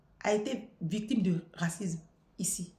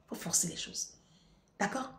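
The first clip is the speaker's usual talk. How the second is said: hushed; 9 dB quieter than usual. Real, not acted. Urging in a hushed voice.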